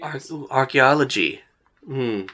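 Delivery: intrigued actor. Acted. Flamboyant actor hearing of archaeology, lightly theatrical intrigue. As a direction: make a dull subject sound cool. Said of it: "he's making it sound cooler than it is".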